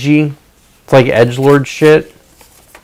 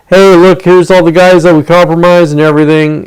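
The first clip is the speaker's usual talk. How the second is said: mock cheerful announcer; 6 semitones higher, 4 dB louder than usual. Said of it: "It ain't no, like".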